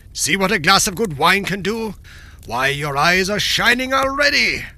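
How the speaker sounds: jovial, mocking tyrant voice; gloating king. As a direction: gloat over the weeping dwarf.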